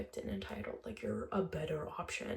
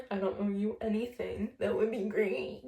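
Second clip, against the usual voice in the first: mocking echo. Mocking his request.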